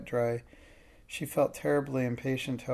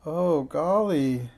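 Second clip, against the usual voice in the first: slow, stretched-out "golly", sinking worry; drawn-out dismay; 3 semitones higher, 6 dB louder, much slower than usual. A narrator's reading. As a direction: let "golly" drag out heavily. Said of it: "she said again".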